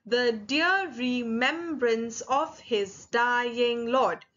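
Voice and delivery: very slow, each syllable set apart; counting out syllables. Shown as a demonstration. Teacher counts a poem line with students, syllable by syllable. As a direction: read it beat by beat for counting. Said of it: "you have to count it together".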